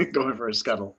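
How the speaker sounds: repeating it through a laugh. Real, not acted.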